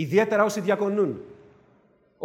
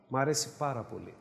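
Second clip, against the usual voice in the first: Μ' αρέσει πάρα πολύ said softly and lower; softer repeat; 7 semitones lower, 8 dB quieter, faster than usual. Shown as a demonstration. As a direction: murmur it to yourself with the stress on αρέσει. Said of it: "said twice, second softer".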